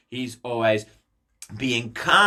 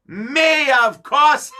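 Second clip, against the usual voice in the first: higher, louder laughing brag; gleeful boast; 8 semitones higher, 5 dB louder, slower than usual. Acted. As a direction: crow it with a villain's laugh. Villain claims the crown.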